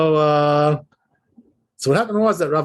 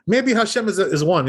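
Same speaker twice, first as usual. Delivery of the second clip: mock doubting voice; 2 semitones higher than usual. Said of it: "So you're saying".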